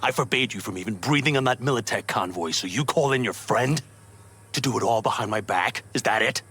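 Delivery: stern, accusing dressing-down; angry reprimand. Acted. Camp leader confronts defiant member over a secret plan, angry. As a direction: confront them for going behind your back.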